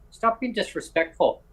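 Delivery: slow, pointed mock scolding; a kid telling off the adult; firm rebuke. The paper boy scolding the social worker, firm. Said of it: "I go".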